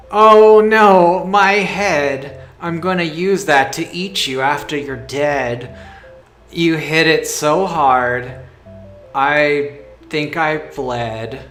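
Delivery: loud, dopey giant bellow; dopey cartoon bellow. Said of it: "the giant says".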